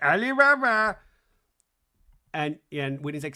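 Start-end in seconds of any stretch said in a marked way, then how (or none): 0.0-1.0 a loud, high, disbelieving Alibaba; incredulous echo. Retold or imitated. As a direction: throw the word back in shock. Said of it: "And Mary's like".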